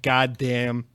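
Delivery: "God damn" said deflated, as if hurt by the insult; stung god damn. Retold or imitated. Host reacting to a mean viewer comment, hurt "God damn". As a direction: let "God damn" drop like a stung sigh. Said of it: "and I'll be like".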